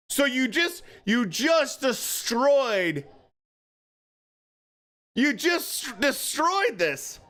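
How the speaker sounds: exasperated. Real, not acted. Slow complaint at referee.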